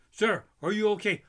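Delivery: worried vendor. Retold or imitated. Snow cone vendor checking on the screaming man. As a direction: ask it anxiously.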